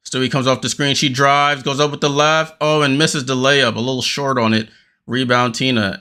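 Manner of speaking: quick running commentary, rising on the action; live play-by-play. Acted. Fan calling the Liberty game live for viewers, quick play-by-play. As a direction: call each pass and shot as it happens.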